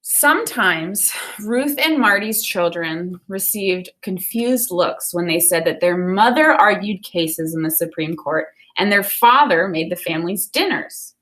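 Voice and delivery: put-on clear, expressive reading of a children's book to the class; storybook read-aloud. Teacher reading a Ruth Bader Ginsburg picture book to students, expressive read-aloud. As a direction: read it like story time for kids.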